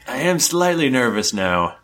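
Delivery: a captive trying to sound unafraid; nervous cultist. Acted. Captive cultist to the party, high and jittery. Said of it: "He goes".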